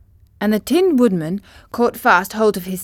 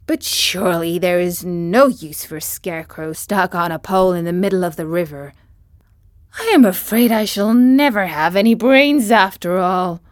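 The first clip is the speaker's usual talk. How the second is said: creaky scarecrow. Acted. Scarecrow's sad thoughts.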